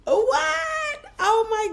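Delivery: high-pitched shocked what; surprised. Real, not acted. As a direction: gasp in surprise. Shocked by barbecue question.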